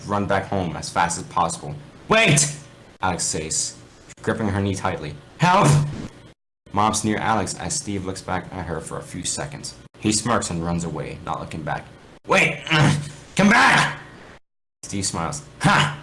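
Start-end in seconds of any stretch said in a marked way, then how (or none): 2.1-2.6 high, loud cry to stop him; desperate call. Acted. Injured Alex calls Steve. 5.4-5.7 loud, high panicked yell; cry for help. Acted. Mobs near injured Alex. 12.3-14.0 high, loud call after him; desperate pleading shout. Acted. Alex begging as he runs. 15.6-16.0 gloating ha. Acted. Steve gloating.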